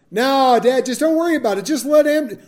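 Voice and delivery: a son waving off his dad's questions, talking fast; lightly voiced son hurrying his father along; pushy brushing off. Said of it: "And he goes".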